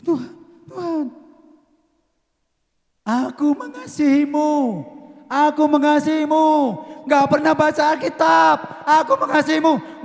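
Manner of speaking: high, loud overblown prayer; mock hypocrite prayer. Pastor mimics a hypocrite praying, loud and overdone. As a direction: ham up a hypocrite's fervent prayer. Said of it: "Munafik loh".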